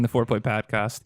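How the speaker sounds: put-on light Boston accent on podcast. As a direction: say it like a Boston local. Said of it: "I was channeling my Boston accent".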